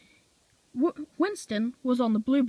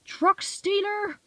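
taunt; 10 semitones higher, much slower than usual. A narrator's reading. Diesel taunting Bill again.

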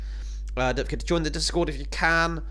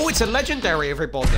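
excited; 3 semitones higher, 6 dB louder, much faster than usual. Real, not acted. Finds a legendary item in game.

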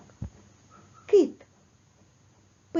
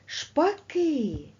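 Шпаки with the ки lifted higher and held; stress on second syllable; 6 semitones higher than usual. Shown as a demonstration. Teacher marks stress for the class, lifted. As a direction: lean on the end of Шпаки. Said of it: "Теж на другий".

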